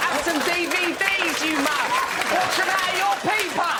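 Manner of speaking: high, hammed-up heckling; mock thug. Voices a hammed-up threatening thug.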